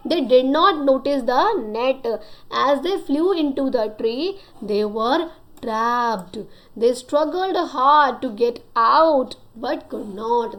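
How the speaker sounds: put-on slow, careful reading to children; unhurried storybook reading; story reading. A narrator's reading. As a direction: read each word out slowly for the class. Reads the story to pupils.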